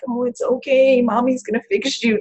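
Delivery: high, lightly voiced child cooing to a toy; daughter soothing bunny. Mom imitating daughter comforting her sick bunny, light high coo. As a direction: mimic the girl mothering her bunny.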